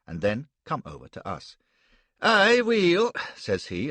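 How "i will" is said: high, loud pious cry; a big man booming a greeting; loud, high shout; loud exclamation. Acted. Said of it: "that astonishing accent".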